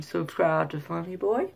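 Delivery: mild Southern lilt, rising at the end; tentative Louisiana accent, not too Southern. Shown as a demonstration. Vlogger trying Ellen's Louisiana accent, mildly Southern. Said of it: "not too Southern".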